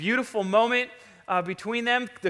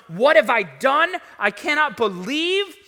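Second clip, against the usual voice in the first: mildly anguished, raised-voice self-reproach; remorseful disbelief; 3 semitones higher, 5 dB louder than usual. Acted. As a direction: act out regret with stressed, incredulous words. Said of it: "filled with remorse and regret".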